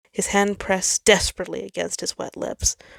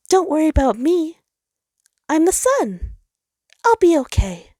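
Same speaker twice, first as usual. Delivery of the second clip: high, loud voice forcing courage; the sun insisting he's fine; brave little star; 11 semitones higher, 7 dB louder than usual. Acted. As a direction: reassure while frightened. Sol's character voice.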